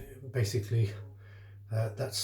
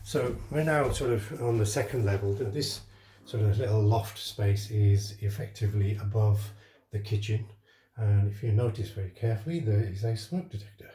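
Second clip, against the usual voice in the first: breathless after climbing stairs; out of breath, catching air between phrases. Real, not acted. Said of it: "a bit out of breath there".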